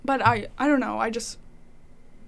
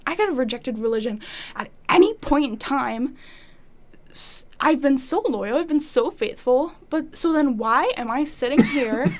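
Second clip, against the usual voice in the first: raised, louder frustrated plea; venting hurt at God, voice up; angry outburst at God; 2 semitones higher, 6 dB louder than usual. Retold or imitated. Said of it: "upset with God".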